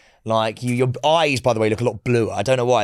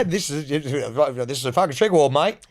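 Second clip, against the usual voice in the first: mock Australian; 2 semitones higher than usual. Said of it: "That was a little bit Australian".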